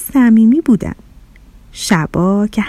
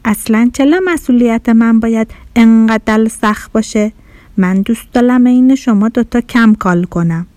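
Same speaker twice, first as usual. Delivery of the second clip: grumpy. Acted. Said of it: "اخم کرد و گفت".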